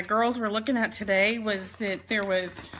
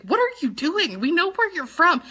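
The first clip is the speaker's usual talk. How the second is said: higher-pitched incredulous retort, lightly imitated; mock disbelief; 5 semitones higher than usual. Old schoolmates challenging her accent, in mock disbelief.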